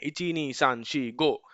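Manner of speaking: slow counting drill. Shown as a demonstration. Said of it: "आपको ऐसे practice करना है".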